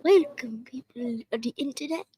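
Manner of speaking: child's playful impression of an accented intro greeting; Chaka's accent. Child re-enacting a host's intro for the chat, in an imitated accent. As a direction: put on an accent for the show intro. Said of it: "you copy Chaka's intro".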